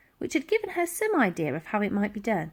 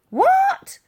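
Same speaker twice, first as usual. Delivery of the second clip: put-on hard-of-hearing old lady; 7 dB louder than usual. A narrator's reading. Dotty can't hear over noise.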